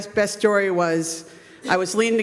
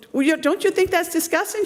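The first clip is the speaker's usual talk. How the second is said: higher, pressing scold; indignant fan; 10 semitones higher than usual. Retold or imitated. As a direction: push the question at the mother.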